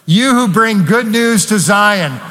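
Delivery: spirited, emphatic scripture reading; with gusto. Real, not acted. Preacher leading the church in reading aloud, with gusto. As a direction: proclaim the good news with gusto. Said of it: "I need it with gusto".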